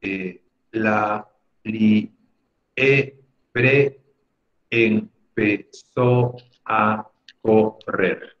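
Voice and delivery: slow halting syllables like a beginner reader; lightly imitating a child reading; child sounding out. Shown as a demonstration. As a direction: break each word into slow syllables. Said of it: "comienza a decir".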